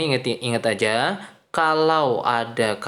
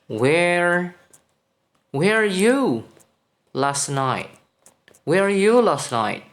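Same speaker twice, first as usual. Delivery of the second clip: wrong version, read aloud; 6 semitones higher, 3 dB louder, slower than usual. Shown as a demonstration. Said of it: "Kalau kamu menerjemahkannya seperti ini".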